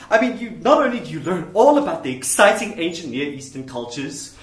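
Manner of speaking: lightly hammed-up enthusiastic scholar; mock academic rapture; liberal minister. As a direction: gush about culture and philosophy like a minister. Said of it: "This is what you'll get from one of those guys".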